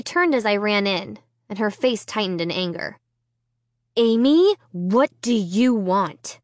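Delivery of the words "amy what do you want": a hint of an annoyed sister; lightly voiced demanding sister. A narrator's reading. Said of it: "she demanded".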